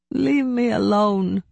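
high, pleading wail. A narrator's reading. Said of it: "she wailed".

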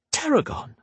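high, proud announcing; presenting it grandly; grand announcement. A narrator's reading. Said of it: "gesturing grandly".

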